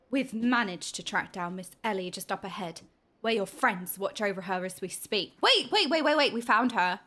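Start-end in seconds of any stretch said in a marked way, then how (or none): 0.1-5.3 low, formal game character voice; grave report to a hero, pitched down; solemn quest-giver. Acted.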